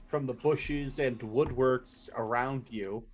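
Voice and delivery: slow, dramatic scene setting; game master narration. Acted.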